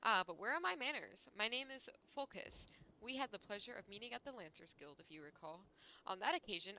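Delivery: lightly voiced haughty character; smug, mocking character read; reading game dialogue. Reading NPC dialogue aloud.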